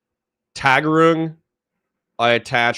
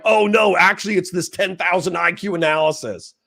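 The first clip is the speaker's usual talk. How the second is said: mock know-it-all; 5 semitones higher than usual. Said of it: "and you're like".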